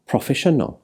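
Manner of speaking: Proffesiynol with the next-to-last syllable, "siy", emphasised; stress on second-last syllable. Shown as a demonstration. Teacher demonstrating Welsh word stress, Proffesiynol stressed on its second-last syllable. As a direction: stress the syllable before the final one in Proffesiynol. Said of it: "The last syllable but one is emphasised".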